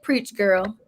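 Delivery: hushed, breathy whisper; soft whispered encouragement; whispered quote. Retold or imitated. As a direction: whisper it like a private cheer. Quoting child's note of encouragement.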